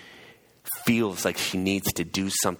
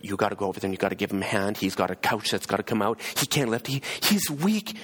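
retold disturbed pleading. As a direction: plead urgently on a sick man's behalf. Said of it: "like, disturbed".

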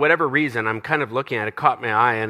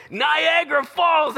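high, slow hammed-up wail; mock bawling; slower than usual. Retelling his tearful reaction to reveal.

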